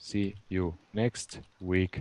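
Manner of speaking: slow, drawn-out, dictation-style delivery.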